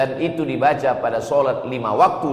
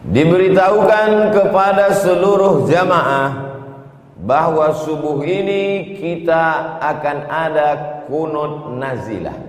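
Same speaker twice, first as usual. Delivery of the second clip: imam's announcement. Retold or imitated. Preacher imitating the imam's dawn announcement to the congregation, formal and raised. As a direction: proclaim it like the mosque announcer. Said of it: "Pengumuman dari imam tadi".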